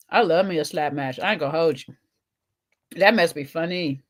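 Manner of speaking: talking while chewing; words round a mouthful; mouth full. Real, not acted. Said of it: "I usually don't like to talk with my mouth full".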